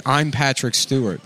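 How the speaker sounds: bad Patrick Stewart impression. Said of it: "He was just saying".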